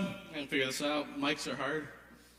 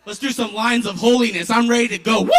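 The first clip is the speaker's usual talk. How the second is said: louder, eager, building to a shout; hyped-up self; 5 dB louder than usual. Retold or imitated. The comic hypes himself up for the prayer, loud and eager. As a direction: rev it up like you're ready to party. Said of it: "I was like".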